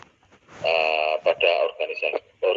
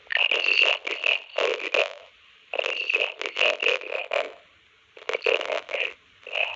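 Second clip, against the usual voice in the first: robotic filtered voice; 9 semitones lower than usual. Real, not acted. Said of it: "Suaranya kayak robot".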